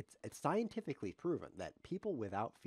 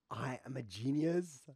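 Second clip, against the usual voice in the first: mock grandiose; 4 dB louder, slower than usual. Mock triumph after a gasp.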